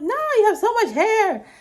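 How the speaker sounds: mock friend laughing the worry away; laughing reassurance. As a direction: laugh it off as you reassure her. Quoting people's laughing reply.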